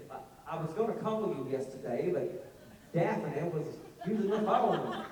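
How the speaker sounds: drawn-out mock Southern accent; fake Southern accent. Actor imitating how Southerners get voiced, mock Southern accent. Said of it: "they give us that accent".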